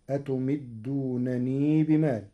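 أتمدونني keeping final ya; Warsh reading. Shown as a demonstration. الشيخ يثبت الياء وصلا. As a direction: recite أتمدونني with ya in joining. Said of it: "بإثبات الياء وصلا".

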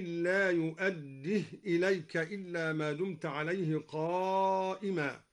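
بقنطار recited as biqinter, بدينار as bidiner; imala on بقنطار and بدينار. Shown as a demonstration. Teacher demonstrating imala in both words. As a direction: lean the long a in بقنطار and بدينار toward e. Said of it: "أمال اللفظين، هكذا".

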